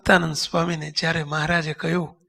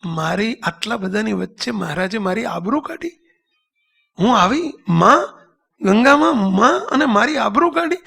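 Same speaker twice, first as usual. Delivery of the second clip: retold indignation; 2 semitones higher than usual. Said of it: "ગંગામાનો ગુસ્સો ગયો". (ગુસ્સાની હળવી નકલ)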